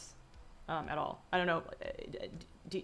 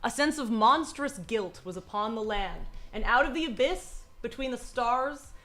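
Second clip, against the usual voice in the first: dramatic story reading. A narrator's reading. Reads Lovecraft story aloud.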